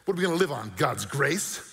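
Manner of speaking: imitating a scoffing wife's objection; mildly scornful, incredulous questions; mock scolding. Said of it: "She scolded. She said".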